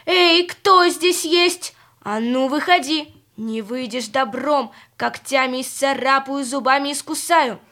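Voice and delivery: a mild mock-angry fox threat; angry shout. Fox threatening the hidden beast, mild mock anger. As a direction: threaten the beast, half-hearted fury. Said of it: "сердитым голосом кричит".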